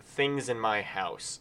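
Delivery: reading the list item slowly. Shown as a demonstration. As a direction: drag out each word. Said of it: "I wrote".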